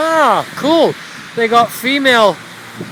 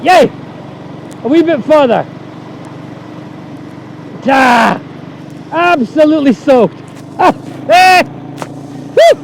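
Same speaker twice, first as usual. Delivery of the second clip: excited cheering; 4 semitones higher than usual. Real, not acted. Made it through water.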